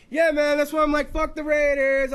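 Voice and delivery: hammed-up drunk fan; mock sports bro. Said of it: "Because it's like".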